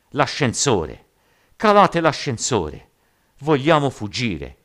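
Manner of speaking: loud, high desperate shouts; frenzied mob yelling. A narrator's reading. Trapped men demanding the lift, frenzied yelling. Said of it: "urlando come belve feroci".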